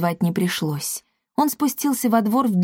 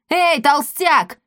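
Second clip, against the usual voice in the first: slow taunting shout; 7 semitones higher, slower than usual. A narrator's reading. Angry trader taunting the merchant.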